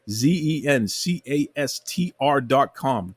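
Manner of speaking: deliberate, slow sponsor plug; slow ad read. Real, not acted. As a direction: spell "Z E N C A S T R dot com" out slowly, letter by letter. Spelling the sponsor's web address.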